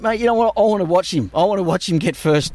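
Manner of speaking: defiant and buzzing, rising over the teasing; pumped. Retold or imitated. Answering a mate's taunt, pumped.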